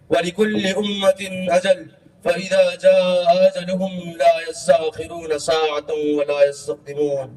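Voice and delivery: measured Arabic scripture recitation; Quran recitation. Acted. Preacher quoting scripture to listeners, solemn recitation. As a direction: recite the verse evenly, drawing out vowels.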